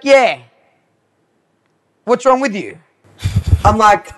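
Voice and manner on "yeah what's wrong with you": higher, louder mock disbelief; incredulous scorn. Retelling a client shocked she can't clean grout, incredulous. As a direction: imitate someone appalled at such ignorance. Client amazed at her ignorance.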